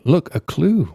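high, gasping mock detective discovery; exaggerated, high-pitched excitement at a find. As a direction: pipe it up high like a hammy sleuth. Playing Sherlock finding a clue.

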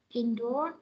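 Indoor said with its pitch going up at the end; rising on indoor. Shown as a demonstration. Teacher showing students the first choice, rising on Indoor. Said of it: "lên cái này ha".

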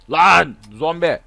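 sudden loud yelp; sharp surprised cry; startled shout. Real, not acted. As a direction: jump and shout at the zombie. Sudden zombie sighting.

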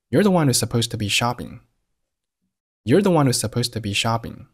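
"shopping" stressed, the small words before it weak and linked. Shown as a demonstration. Teacher models the first sentence, "shopping" stressed. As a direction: lean on "shopping" at the end of the line. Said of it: "shopping做了重读".

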